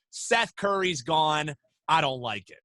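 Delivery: mock fan gripe. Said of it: "the initial was".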